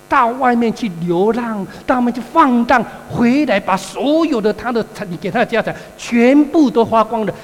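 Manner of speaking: elder son angrily accusing his father of unfairness; aggrieved complaint. Retold or imitated. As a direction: throw the grievance at him, bitter and hurt.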